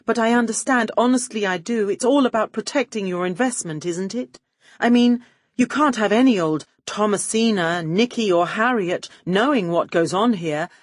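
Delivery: high, gushing starstruck praise; fawning gush. Acted. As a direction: swoon over the studio boss. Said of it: "I was laying it on thick".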